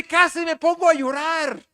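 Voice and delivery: high, loud gushing; nearly in tears from joy; overwhelmed son. Retold or imitated. Son telling his dad he almost cried, high and excited.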